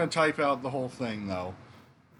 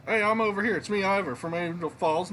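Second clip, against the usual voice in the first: calling back; 6 semitones higher than usual. Acted. Ivor calls back over landslide.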